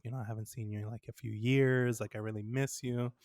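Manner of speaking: softly voiced, sentimental longing; imitated sentimental mom. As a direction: quietly imitate a mother missing her dad. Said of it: "my mom is getting mad sem-, sentimental".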